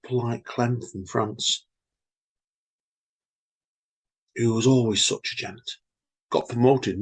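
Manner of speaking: measured, unhurried poem recital with pauses; poem reading. Acted. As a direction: read your poem slowly, letting each image land. Reads own poem Ex-Bosses.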